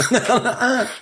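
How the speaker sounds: high, fast, laughing mock tirade; mock-angry rant. Joking about a ranting dad at the opera, high-pitched and laughing.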